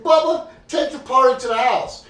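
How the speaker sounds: laut und höher hinüberrufen; loud instruction. Retold or imitated. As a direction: gib die Anweisung quer durch den Raum. Calling a friend across the bar.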